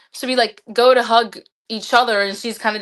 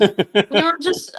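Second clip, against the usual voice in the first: laughing; much slower than usual. Real, not acted. Laughs starting the crying story.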